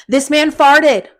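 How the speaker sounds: slow, loud and high: this man farted; disgusted, drawn-out announcement; appalled emphasis. Real, not acted. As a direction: spell it out slowly in outrage. Disgusted reveal of the fart.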